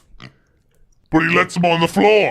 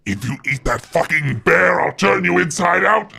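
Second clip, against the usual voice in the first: menacing threat. Acted. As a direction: growl the threat slowly. Lich threatening Mogar.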